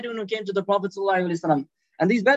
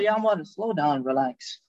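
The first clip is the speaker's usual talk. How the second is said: slower, lower, settling tone; gently slow him down, voice dropping; calming; 7 semitones lower, slower than usual. Retold or imitated. Prophet calms an angry Umar.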